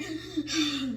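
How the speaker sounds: acted sharp gasp of fright; frightened gasp. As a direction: gasp as if too scared to speak. Retold speechless fright at the snake.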